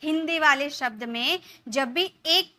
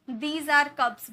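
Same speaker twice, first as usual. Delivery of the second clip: slow clear model; much slower than usual. Shown as a demonstration. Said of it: "बोलेंगे".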